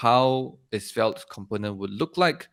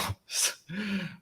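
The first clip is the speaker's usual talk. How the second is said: nervous laugh; 10 semitones higher, 9 dB quieter than usual. Real, not acted. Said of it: "sorry, I'm a bit nervous".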